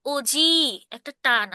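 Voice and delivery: ওজি stretched with a long o, said slowly; drawn-out oji. Shown as a demonstration. Teacher showing students the long ওজি, slow and drawn out. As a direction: stretch the ওজি so it means grandfather. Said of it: "আমার উচ্চারণের টানেই কিন্তু বোঝা যাচ্ছে".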